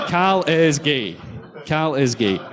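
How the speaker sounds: drawn out slowly through a laugh; slow laughing repeat. Retold or imitated. Reading the hacked tweet aloud, laughing slowly. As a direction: savour the joke, laughing. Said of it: "What did we get?".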